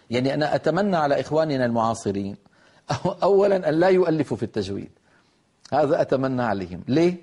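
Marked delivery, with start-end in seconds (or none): 2.9-4.9 laughing. Real, not acted. Mocking wish about authors.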